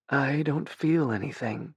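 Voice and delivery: put-on small, soft childlike voice; like a child. A narrator's reading. Dying Ben tells Tenzin he feels nothing, childlike and soft. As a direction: sound like a frightened little boy. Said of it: "His voice was like a child's".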